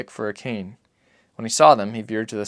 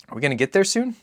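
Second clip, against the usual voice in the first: put-on high, light child's voice; a small boy asking his father; boy's voice; 8 semitones higher, 4 dB louder than usual. Narrator voices the boy asking Papa, high and childlike.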